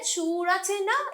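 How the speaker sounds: সুর drawn out high, rising on না; lilting tune. Shown as a demonstration. Teacher showing students the tune in her talk, lilting. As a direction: stretch সুর and lift না at the end. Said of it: "এরকমভাবে বললাম".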